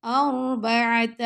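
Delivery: أَرْبَعَةَ with a soft light sakin ر; أَرْبَعَةَ, thin ra. Shown as a demonstration. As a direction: say أَرْبَعَةَ gently on the ra. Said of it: "را کو ہم نے نرمی سے پڑھنا ہے".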